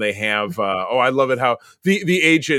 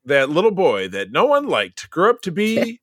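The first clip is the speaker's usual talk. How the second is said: Paul Harvey; 2 semitones higher than usual. Retold or imitated. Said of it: "Paul Harvey's on".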